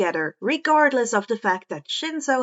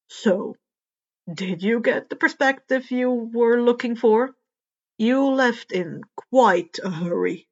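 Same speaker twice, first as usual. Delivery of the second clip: a hint of Eraser. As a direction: ask it calmly, a bit pointed. Eraser asks under the stars.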